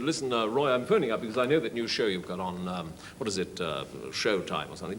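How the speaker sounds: lightly voiced radio star on the phone; offhand impostor's phone chat, dropping low; Kenneth Horne. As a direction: casually pose as a well-known broadcaster. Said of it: "doing these impersonations".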